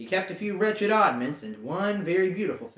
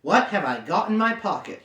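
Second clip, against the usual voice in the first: a touch louder, pressing; 4 semitones higher, 3 dB louder than usual. Acted. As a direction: insist on the question. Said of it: "he said louder".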